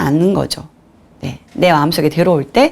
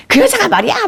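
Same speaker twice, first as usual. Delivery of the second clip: very high mock outrage; indignant tattling. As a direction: blurt the complaint in a shrieky-high pitch. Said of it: "막 이렇게 한, 한 거죠". (아주 높은 톤으로 분통 터뜨리는 흉내)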